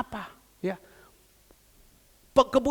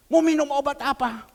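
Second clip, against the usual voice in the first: louder, rising question to the congregation; tanya lantang "Mau minum obat apa?"; 3 semitones higher, 6 dB louder than usual. Acted. Asks the question out loud. (bertanya lantang)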